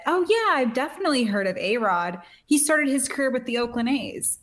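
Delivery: a hint of a Londoner's British accent, said with confidence; lightly voiced British accent; mock British accent. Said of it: "beautiful, beautiful accent".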